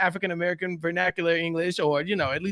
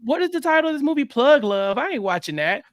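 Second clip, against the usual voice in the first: dismissive viewer; 5 semitones higher than usual. Retold or imitated. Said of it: "people for sure will be like".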